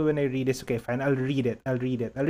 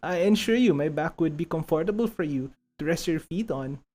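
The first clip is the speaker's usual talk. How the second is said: eager, slightly raised pleading admirer; hammed-up lovestruck servant; mock-devoted suitor begging to help; 4 semitones higher than usual. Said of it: "with impromptu voice acting".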